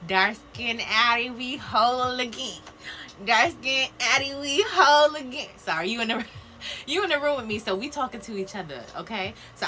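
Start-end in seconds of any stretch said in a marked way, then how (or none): 0.1-2.6 excited call-out. Acted. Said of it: "calling out a card message". 3.3-5.5 belted out higher and louder; a proud, happy hollering cheer; loud joyful call-out. Acted. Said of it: "repeats the call-out louder".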